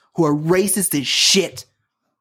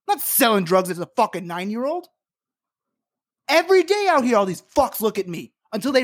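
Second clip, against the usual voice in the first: heated anger; 5 semitones higher than usual. Real, not acted. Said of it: "I'm real emotional".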